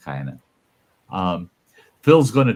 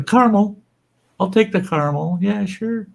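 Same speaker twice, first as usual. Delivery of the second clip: eager acceptance; 10 semitones higher than usual. Retold or imitated. He eagerly accepts caramel creamer.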